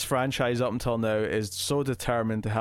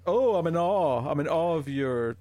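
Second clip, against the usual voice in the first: drawn-out, higher-pitched "oh" of wonder, settling down; mock awe; 5 semitones higher than usual. Podcast host imitates someone awestruck by another, mock awe. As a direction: put on an awestruck voice, slowly.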